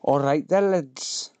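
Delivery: lightly done northern greeting; put-on northern accent. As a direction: greet the lads in a mock Yorkshire accent. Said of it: "I don't know what accent he's supposed to be".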